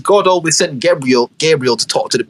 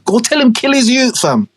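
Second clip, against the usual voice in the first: insistent God; 8 semitones higher than usual. Acted.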